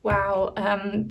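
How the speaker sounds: ordinary delivery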